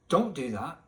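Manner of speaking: normal talking voice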